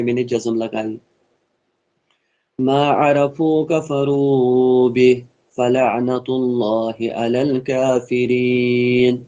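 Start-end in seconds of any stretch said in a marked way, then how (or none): 2.6-9.2 slow melodic tajweed recitation; slow chanted Quran verse. Acted. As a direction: draw each syllable out in chant.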